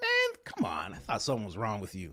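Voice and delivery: acted, pissed-off, irritated, annoyed, swooping exasperation. Imagining how someone who saw him crying would react, acting out someone pissed off. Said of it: "They would have been pissed".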